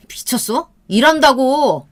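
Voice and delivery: sharp, irritated retort; angry snap. Acted. Boyfriend snapping at girlfriend on the phone, irritated. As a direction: bite back annoyed.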